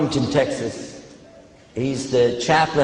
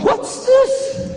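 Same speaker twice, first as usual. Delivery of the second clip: startled. Retold or imitated. Reacting to the man's stunt.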